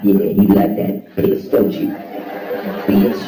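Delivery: mock dominant taunting; crude trash talk. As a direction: taunt the toilet, loud and slow. Trash-talking the toilet.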